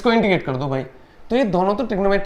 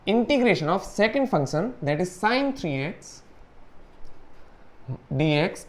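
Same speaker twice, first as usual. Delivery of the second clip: slow dictation; 3 semitones lower, 5 dB quieter, much slower than usual. Shown as a demonstration. Dictating formula while writing.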